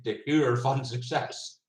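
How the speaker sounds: "de geur van succes" said slowly with a soft G through a mouthful; slow Dutch "geur" with the G sound missing, mouth full. Real, not acted. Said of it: "I have my mouth full. I can't do a G".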